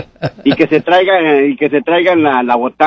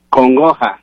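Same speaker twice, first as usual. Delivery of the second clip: slow clarification; slower than usual. Real, not acted. Host repeats the song title for a puzzled listener, slow clarification. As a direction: repeat the title slowly for someone who missed it.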